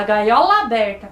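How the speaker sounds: "gaiola aberta" linked with one shared A; "gaiola aberta" said as one joined word; words run together. Shown as a demonstration. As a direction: join the end of "gaiola" into "aberta" as a single A. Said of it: "a gente faz uma junção".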